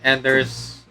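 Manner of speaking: demon voice held through the commentary; a put-on demon voice; demonic layered voice. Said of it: "the demon voice is kinda straining me".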